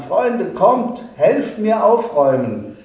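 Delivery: man shouting to his neighbours for help; calling to neighbours. A narrator's reading. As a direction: call the neighbours over urgently. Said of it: "rief zu seinen Nachbarn".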